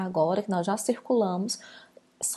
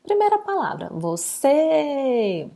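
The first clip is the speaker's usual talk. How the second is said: "você" with a long, stretched final "cê"; stressed syllable drawn out; 4 semitones higher, 3 dB louder, slower than usual. Shown as a demonstration. Teacher showing pupils the tonic syllable, "você" drawn out on "cê". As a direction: hold the last syllable of "você". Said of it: "o som se prolonga um pouquinho mais".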